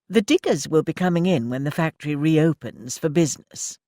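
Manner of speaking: brisk lady manager. Acted. Mrs Frobisher telling Annie of the inspector, proper lady voice. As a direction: play the well-meaning welfare officer.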